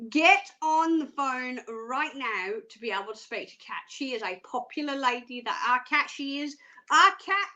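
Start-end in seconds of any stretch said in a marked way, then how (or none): 5.7-7.5 a hint of English accent; slipping into English accent. Real, not acted. Host introducing a popular psychic, lightly English-sounding. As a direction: let a touch of English creep in. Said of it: "sounding like I'm English".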